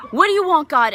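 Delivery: high, loud demand; acted desperate yell; screaming at God. Shaking her hand at God, loud anguished shout. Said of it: "I was screaming at God".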